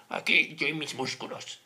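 slow, far-off cocky gym bro; mock muscle show-off. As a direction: strut through it like a vain bodybuilder. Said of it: "Qué va así". (fanfarrón musculoso, lento y burlón)

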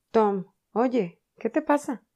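loud, high anxious call; worried shout. Acted. Sid anxiously shouting to his groaning brother. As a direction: shout in alarm.

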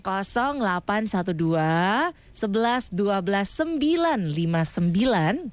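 slow, careful number dictation; slowly. Real, not acted. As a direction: spell out each digit slowly. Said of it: "Pelan-pelan diulangi sekali lagi".

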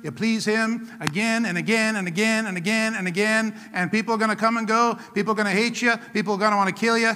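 steady, chant-like preaching cadence; relentless repetitive preacher's rhythm; rhythmic preaching. Acted. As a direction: drive each short phrase home in the same beat.

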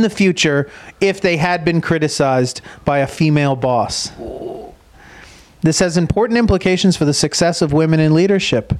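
steady reading of a research summary; reading aloud. Acted. Host reading a professor's findings to cohost, measured reading voice. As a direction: read it out like an abstract.

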